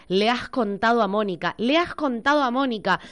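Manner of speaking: imitating a Castilian Spanish accent; mock Spain Spanish phrasing; parodying an Argentine actor dubbed Spanish. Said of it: "Lo escuché decir a Sbaraglia en el tráiler".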